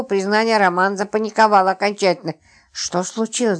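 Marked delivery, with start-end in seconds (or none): none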